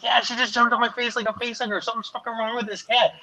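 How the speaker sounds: high-pitched comic complaint; retold bewilderment. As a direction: act out exasperated disbelief, close to laughing. Retells baffled complaint about cat.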